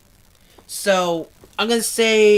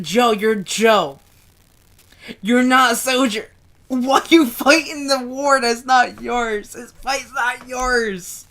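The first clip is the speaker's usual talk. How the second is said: drawn-out, mildly raised plea; pleading retelling; 4 semitones higher, 3 dB louder, slower than usual. Retold or imitated. Reader retelling father's words to Joe, slow pained plea.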